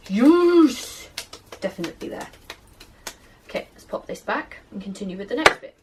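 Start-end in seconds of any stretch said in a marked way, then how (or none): 0.1-1.1 excited yes. Real, not acted. Dough ball finally comes together.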